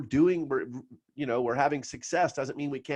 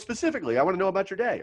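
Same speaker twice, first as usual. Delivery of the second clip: mentor's voice; 7 semitones higher, much faster than usual. Retold or imitated. Retelling mentor pressing him.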